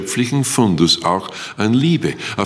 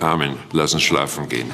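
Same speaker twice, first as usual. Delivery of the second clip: grinning Jesus; 6 semitones lower, 3 dB quieter than usual. Retold or imitated. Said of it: "dann grinst er und sagt".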